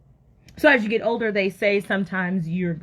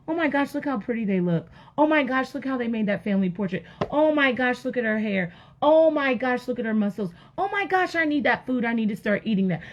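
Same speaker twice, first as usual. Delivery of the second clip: mock gushing envy; 3 semitones higher than usual. Woman scrolling Instagram admiring strangers, mock gushing. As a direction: gush like an envious social media scroller.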